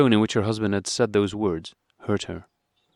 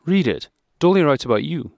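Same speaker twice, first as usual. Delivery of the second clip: with a smile; 7 semitones higher, 5 dB louder than usual. A narrator's reading. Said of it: "Kitty began with a smile".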